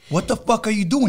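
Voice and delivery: shocked yell. Retold or imitated. Catching bodyguard, shouting.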